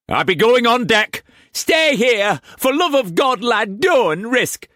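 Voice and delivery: high, anxious mother; fearful prayer. A narrator's reading. Liza fearing for Tess in the storm, anxious. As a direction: pray through fear.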